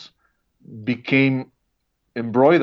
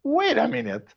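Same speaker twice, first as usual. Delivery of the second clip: much higher, eager spotting of familiar faces; excited recognition; 13 semitones higher than usual. Retold or imitated. Guest recalling watching the documentary, excitedly surprised. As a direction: gasp in delight at each face you know. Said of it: "and I was like".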